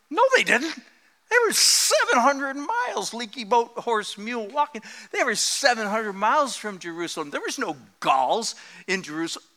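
high, incredulous objection; mock protest. Listener objecting to the preacher, high and incredulous. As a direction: raise the pitch in mock disbelief. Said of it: "you go".

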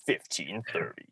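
a light, mock station ID read; tossing off a sports radio ident. Host adding a light mock sports radio station ID. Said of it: "the guys that does".

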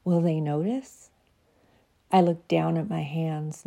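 measured, reflective poem reading; reading her poem. Acted. Reading her Christmas piece to podcast listeners, reflective.

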